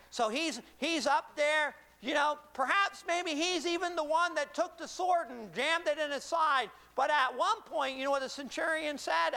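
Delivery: high-energy pulpit storytelling; animated preaching. Acted. Preaches at full force.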